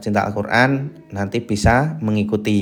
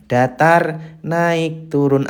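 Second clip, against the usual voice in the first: higher voice naming flat, rising, falling; three tones named; 5 semitones higher, much slower than usual. Shown as a demonstration. Teacher names the three tones, raised voice. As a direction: sing datar flat, naik rising, turun falling. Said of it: "konsisten tiga nada".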